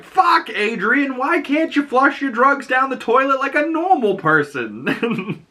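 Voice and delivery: high, slow mock outrage breaking into a laugh; squeaky imitated frustration; exasperated outburst. Economos exasperated at drugs blowback.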